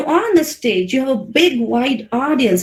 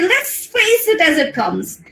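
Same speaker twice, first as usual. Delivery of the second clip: high, drawn-out rallying line; upbeat self-encouragement, pitched up; full of energy; 5 semitones higher, slower than usual. Acted. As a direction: say it with energy, stretching the words. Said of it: "full of energy and say".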